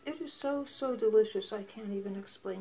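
talking with a mouthful of food; words round a bite of food, mouth full. Real, not acted. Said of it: "So sorry for talking with my mouth full".

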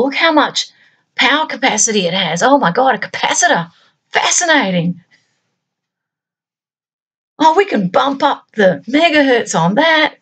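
high, gushing delight over circuit boards; lightly voiced eager electronics nerd; geeky girl enthusing. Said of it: "They're not going".

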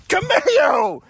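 loud high yell at the camel; exasperated shout. Real, not acted. Yelling at the camel for kicking the shrimp. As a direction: call the camel out sharply.

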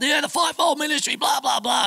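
retold yell. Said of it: "he yells out".

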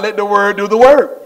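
leading the congregation in a shout; rallying shout. Real, not acted. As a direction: call it out for the crowd to echo. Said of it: "Come on, shout".

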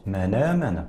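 teacher models من آمن in the Warsh transfer; Warsh reading. Shown as a demonstration. Teacher shows viewers how Warsh reads من آمن. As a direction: say من آمن as Warsh does, with the hamza's vowel moved onto the nun. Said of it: "يقرأ ورش".

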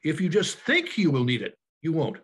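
the word "think" leaned on and held out a little; emphasis on the word "think", the rest plain; stress on think. Shown as a demonstration. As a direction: lean on "think" to cast doubt on the need. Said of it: "with the emphasis on the word think".

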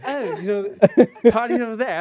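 hammed-up imitation of an Australian accent; slow, drawn-out attempt at an Australian accent; bad Australian accent. Comic retelling of a film star's reply, bad Australian accent. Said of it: "That's my bad Australian accent".

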